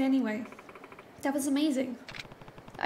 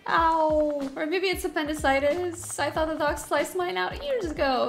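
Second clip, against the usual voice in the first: put-on higher old lady faking agony; lightly voiced granny, mock suffering; hammed-up granny pain; 3 semitones higher than usual. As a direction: moan like a grandma milking it. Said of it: "Like my granny voice".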